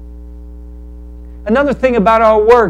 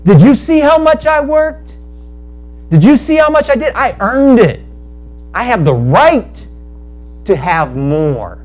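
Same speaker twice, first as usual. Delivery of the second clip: indignant complaint; 2 semitones higher than usual. Acted. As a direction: demand what you're owed, aggrieved. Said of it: "He was angry".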